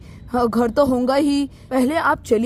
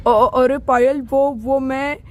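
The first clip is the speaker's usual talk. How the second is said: stuttering caught liar; nervous stammer; slower than usual. Acted. Groom stammering as Payal accuses him of lying. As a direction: fumble the words, caught out. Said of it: "जब इंसान झूठ बोलता है ना तो वो हकलाता है".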